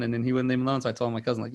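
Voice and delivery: usual speaking voice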